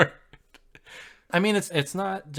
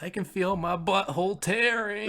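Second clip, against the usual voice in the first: mock agony; 6 semitones higher than usual. Acting out Thanos in agony.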